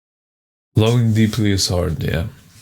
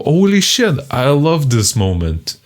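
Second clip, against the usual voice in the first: excited outburst; 5 semitones higher than usual. Retold or imitated. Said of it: "I'm afraid to laugh and show".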